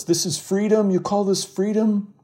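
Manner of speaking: high, indignant shouted question; yelling. A narrator's reading. Man at a window protesting the arrests, indignant yell. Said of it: "a man yelling from a second-story window".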